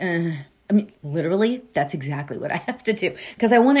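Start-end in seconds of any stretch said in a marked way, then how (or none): 0.0-0.3 sleepy wordless grunt; groggy grunt. Retold or imitated. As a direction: grunt like you can't talk yet. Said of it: "I'll be like".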